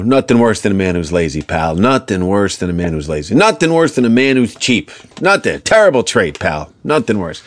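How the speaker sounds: lightly voiced Irish dad laying down a saying; a hint of an Irish father; father impression. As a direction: repeat it like dad's favourite maxim. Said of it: "he always had these sayings that he would repeat".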